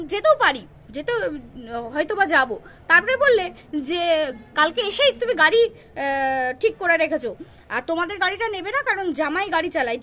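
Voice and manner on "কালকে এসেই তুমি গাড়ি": usual speaking voice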